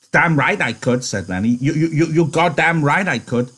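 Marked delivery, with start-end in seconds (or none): 0.1-1.0 put-on higher, stammering childlike man; eager Lenny. Lenny begging George for the rabbits, eager and stammering. 1.7-3.5 put-on higher, stammering childlike man; eager Lenny. Lenny begging George for the rabbits, eager and stammering.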